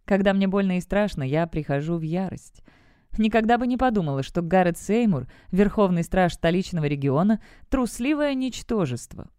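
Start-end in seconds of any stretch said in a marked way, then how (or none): 3.2-9.3 mild scornful jab; a touch of spite, lightly voiced; contemptuous and spiteful. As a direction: spit out the insult with understated disdain. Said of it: "бросила презрительно и зло".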